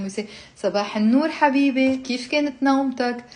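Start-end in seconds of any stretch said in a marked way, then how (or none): 0.6-2.0 brisk, connected conversational Arabic; natural speed. Shown as a demonstration. Teacher showing how people speak in Lebanon, natural speed. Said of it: "like natural speed". 2.0-3.2 quick, run-together question; natural speed. Shown as a demonstration. Teacher showing how people speak in Lebanon, fast and natural. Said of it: "like natural speed".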